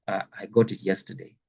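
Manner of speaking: talking through the flu; sick with flu. Real, not acted. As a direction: voice worn by a cold. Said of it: "I have the flu".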